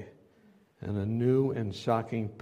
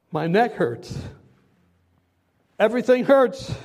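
much higher and louder, desperate begging, rising and falling; pleading dying man; 5 semitones higher, 6 dB louder than usual. Retold or imitated. Preacher reenacting George Floyd's last words, desperate pleading. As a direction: cry out the pleas of a man who cannot breathe. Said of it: "the last words of George Floyd".

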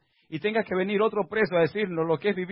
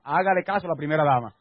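firmer, fuller-voiced instruction; firm preacher's exhortation; emphatic repeated advice; 3 semitones lower than usual. Real, not acted. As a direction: push the advice out to the whole congregation. Repeats after only three ladies responded.

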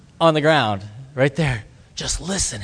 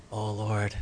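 scared prayer; 6 semitones lower, 12 dB quieter than usual. Retold or imitated. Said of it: "he's so scared".

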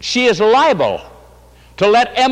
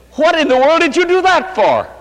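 high, loud, astonished husband's voice; a husband stunned by a kiss; 10 semitones higher, 3 dB louder than usual. Retold or imitated. Wife retelling her husband's astonished question.

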